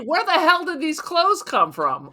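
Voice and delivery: high, put-on Victorian lady voice; prissy old-fashioned grande dame. Wife transformed into a grande dame, scolding her husband. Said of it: "she's slowly changing in front of them".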